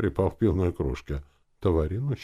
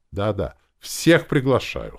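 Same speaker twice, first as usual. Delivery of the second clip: louder, higher, unhurried cheerful invitation; 5 semitones higher, 8 dB louder, slower than usual. A narrator's reading. Host inviting everyone to the opening, cheerful. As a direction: invite everyone merrily, stretching it out. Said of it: "сказал я весело".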